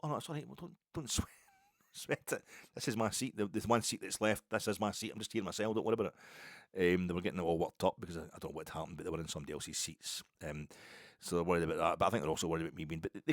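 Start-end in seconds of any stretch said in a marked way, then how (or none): 0.0-6.9 reassuring. Retold or imitated. A big man reassuring young fans that the seat is his. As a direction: lightly put them at ease, no fuss.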